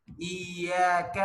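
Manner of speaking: ایاک with a light, thin front k; thin kaf. Shown as a demonstration. Teacher demonstrating the thin kaf in ایاک. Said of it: "اس کاف کو باریک پڑھتے ہیں".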